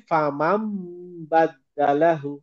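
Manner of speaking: "ফা মাম বাদ্দালাহু" drawn out slowly with a hummed meem; iqlab recitation. Shown as a demonstration. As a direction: demonstrate "ফা মাম বাদ্দালাহু", holding the meem before the ba. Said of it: "এরকম হয়". ("ফা মাম বাদ্দালাহু", মিমে গুন্নাহ করে ধীরে পড়া)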